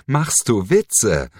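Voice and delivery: near-cracking mock laugh question; voice nearly cracking. A narrator's reading. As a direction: push the voice up until it almost cracks. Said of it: "während sich seine Stimme fast überschlug".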